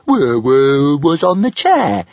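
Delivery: high, loud, sulky little dragon; a pet dragon sniffing an excuse. A narrator's reading. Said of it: "sniffed Toothless".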